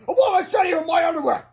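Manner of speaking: high, loud outraged shriek; angry scream. A narrator's reading. Enraged man screams in outrage, high and loud. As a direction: scream it in indignation. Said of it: "he screamed".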